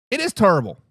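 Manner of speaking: lightly voiced famous basketball pundit; a hint of the big booming analyst; Charles Barkley impression. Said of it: "in my best Charles Barkley voice".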